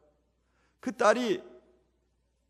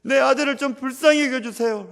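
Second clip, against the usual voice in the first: fervent prayer; 4 semitones higher, 6 dB louder than usual. Shown as a demonstration. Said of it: "라고 기도하셔야 됩니다".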